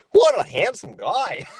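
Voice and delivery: high, slow goofy compliment. Retold or imitated. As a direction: drawl the compliment like a cartoon dog. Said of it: "I called him a handsome guy".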